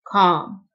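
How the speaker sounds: "Calm" with no L sound; silent L. Shown as a demonstration. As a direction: pronounce "Calm" as KAHM. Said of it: "ال L silent".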